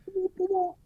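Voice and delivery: very high whoop whoop sound of a flying axe; whooping sound effect. Retold or imitated. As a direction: swoop the voice way up like something flying.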